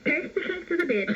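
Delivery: high squawky parrot voice; parrot impression. The speaker finally obliging the prank caller, high parrot voice. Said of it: "here I go".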